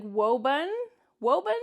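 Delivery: Woburn as "WOE-bun", R dropped, questioning rise; attempted local pronunciation. Newcomer puzzling over what locals say, Woburn as a tentative "WOE-bun". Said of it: "what they're trying to say".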